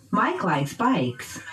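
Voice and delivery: slow "Mike likes bikes", pitch peaks on "Mike" and "bikes"; noun stress. Shown as a demonstration. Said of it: "using pitch change".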